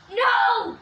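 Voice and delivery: loud high protest; shout. Pretend. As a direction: yell no to stop the throw. Protests friend being thrown.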